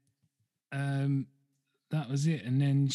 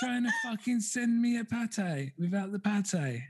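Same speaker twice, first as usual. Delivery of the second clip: mock indignant streamer; 9 semitones higher, slower than usual. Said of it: "she was like".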